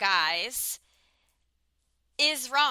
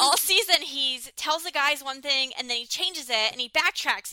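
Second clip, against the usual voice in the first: worked-up rant, pushing forward; fired up; 3 semitones higher than usual. Real, not acted. Podcast host ranting about a contestant's backtracking, fired up. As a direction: get heated recounting his backtracking. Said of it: "sorry, I'm getting all fired up".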